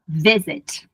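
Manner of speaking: "visit" stressed on "vi"; "visit" with its strong syllable at the start; stress on first syllable. Shown as a demonstration. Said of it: "a sílaba tônica é".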